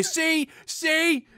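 mock announcement. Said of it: "and say".

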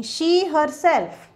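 "She herself" said slowly and firmly; stress on herself. Shown as a demonstration. Teacher slowly stressing "herself" for the class. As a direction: drag out "She herself" to mark the emphasis. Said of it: "we want to emphasize on certain thing".

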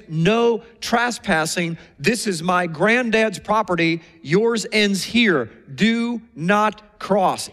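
slow, deliberate stern warning. Pretend. Boundary stone warning a neighbour, slow and stern. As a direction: lay down the line word by word. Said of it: "boundary stones literally say to the other person".

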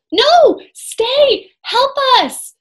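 high loud plea for help; shouting. A narrator's reading. Annie shouting to the serpent for help. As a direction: call out desperately. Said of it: "shouted Annie".

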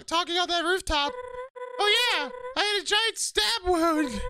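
high character voice. Acted.

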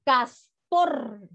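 CASTOR ending on a long rolled R; strong R. Shown as a demonstration. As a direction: hold the final trill in castor. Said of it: "o suena fuerte".

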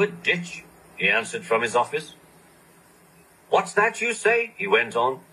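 lightly voiced brisk official; brisk boss on the phone; Fat Controller voice.

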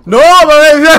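high loud laughing outburst; shocked laughing cry. Real, not acted.

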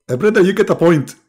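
lightly voiced Zakir Naik; imitating a preacher.

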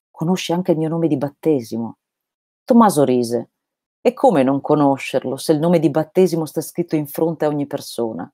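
steady, measured reading of a novel; story narration. A narrator's reading. Reading Laurus aloud to listeners, calm narration.

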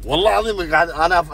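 insist, flustered and impatient; worked-up swearing. Real, not acted. Friend protesting he hates being kept waiting, worked up. Friend nervous about the secret surprise.

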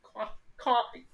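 slow mock Boston coffee, said kwaffee; mimicked Boston coffee. Copying friend's Boston coffee, slow mock accent. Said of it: "I am bullshit at accents".

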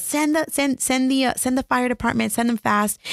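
a touch of frantic caller; retold panic. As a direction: relive the panicked 911 call, pitch up. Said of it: "freaking the heck out".

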